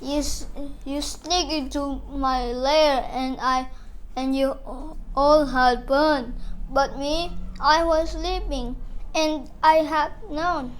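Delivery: hurt, sulky bear complaining; a big bear close to tears; lightly voiced whining bear; whimpering bear. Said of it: "he whimpers and he moans".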